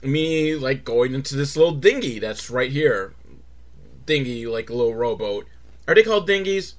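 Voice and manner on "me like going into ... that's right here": put-on loud, sloppy drunk swagger; mock drunk guy. Drunk guy eyeing the dinghy, mock drunk. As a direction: play the tipsy fool. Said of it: "he's just really drunk".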